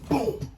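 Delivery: high-pitched mimed blow; imitated punch sound. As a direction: punctuate the story with a punch noise. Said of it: "Hit him straight like that".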